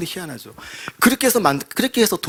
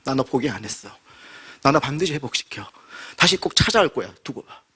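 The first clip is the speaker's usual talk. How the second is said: God's tender vow. Acted. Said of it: "대표적인 게".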